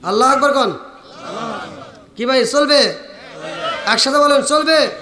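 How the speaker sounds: calling out for a response; preacher's firm call-and-response; rallying the crowd. Real, not acted. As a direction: throw each question out to the whole crowd.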